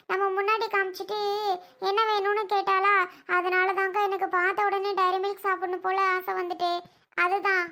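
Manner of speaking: put-on a small child explaining why she wanted chocolate; little girl voice. Little girl explains the chocolate to her sister, childlike and pleading.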